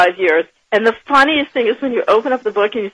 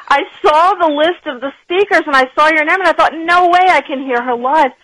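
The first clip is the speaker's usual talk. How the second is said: excited; 6 semitones higher than usual. Retold or imitated. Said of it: "she got all excited".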